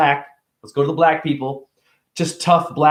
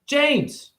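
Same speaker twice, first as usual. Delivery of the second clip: put-on higher little kid voice; 11 semitones higher, 3 dB quieter than usual. A kid answering a stranger, higher small voice. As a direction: answer like a shy ten-year-old.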